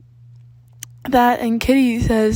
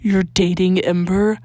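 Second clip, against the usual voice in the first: incredulous; 2 semitones lower, 7 dB louder, slower than usual. A narrator's reading. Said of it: "looking at Danny with incredulity".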